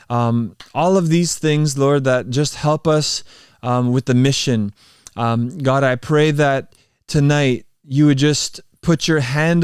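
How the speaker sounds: sincere spoken prayer to God; heartfelt closing prayer, lightly lifted; earnest prayer. Acted. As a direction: pray it from the heart, unhurried. Closes the stream in prayer.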